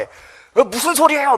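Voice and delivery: high-pitched, indignant challenge; 따지는 제자. Acted. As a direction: demand an explanation in acted outrage. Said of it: "막 따집니다". (높은 소리로 막 따지듯)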